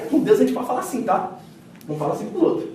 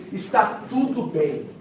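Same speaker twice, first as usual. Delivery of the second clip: calm reply; much slower than usual. Retold or imitated. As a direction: say "Está tudo bem" slowly, unshaken. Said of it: "sabe o que que essa mulher diz?".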